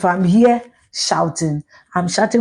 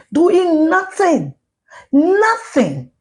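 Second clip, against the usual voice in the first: mocking drawn-out scorn; 10 semitones higher, much slower than usual. Real, not acted. Ranting about parliamentarians.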